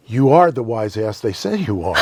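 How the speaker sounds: laughing quote. Retold or imitated. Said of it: "he goes".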